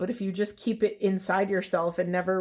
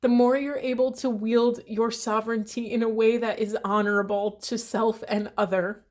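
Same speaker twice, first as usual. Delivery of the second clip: voice shaking; 2 semitones higher than usual. Real, not acted. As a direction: push through the words as tears rise. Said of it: "Sorry, my voice is shaking".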